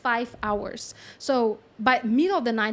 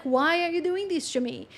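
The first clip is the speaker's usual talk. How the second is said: raised-pitch, mock-pleading complaint; lightly voiced wronged lamb; 5 semitones higher than usual. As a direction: protest as a hard-done-by lamb. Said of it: "and the lamb".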